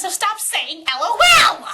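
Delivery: rising to a high, loud shout; fed-up outburst climbing in pitch; exasperated yell. Real, not acted. Rant against saying LOL aloud.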